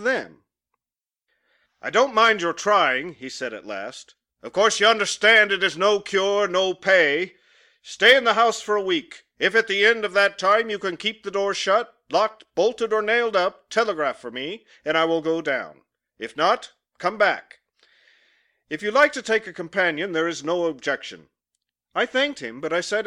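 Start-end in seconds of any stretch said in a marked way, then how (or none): 1.8-3.1 a firm, louder voice for the employer; brusque employer. Acted. Employer to his clerk, lightly voiced gruff boss. Employer grants reluctant permission. 4.4-21.3 a firm, louder voice for the employer; brusque employer. Acted. Employer to his clerk, lightly voiced gruff boss.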